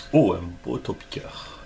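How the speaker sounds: hushed whisper of delight. Real, not acted. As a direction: breathe it out in awe. Quiet delight over a card.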